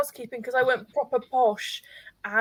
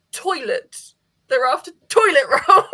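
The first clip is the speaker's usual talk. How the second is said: explaining; 3 semitones higher, 6 dB louder than usual. Retold or imitated. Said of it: "Becca had to go".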